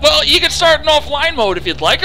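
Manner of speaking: a smug machine offering a workaround; mocking Uplay. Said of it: "And it's like".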